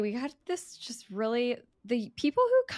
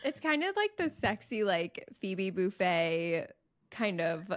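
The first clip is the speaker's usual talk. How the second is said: scratchy, nasal sick voice; blocked nose. Real, not acted. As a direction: talk through a stuffy nose. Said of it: "it's definitely a scratchy voice ... so nasally".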